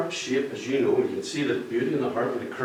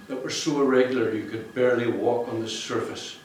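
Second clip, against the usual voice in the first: reading aloud. Shown as a demonstration. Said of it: "Let me just read you".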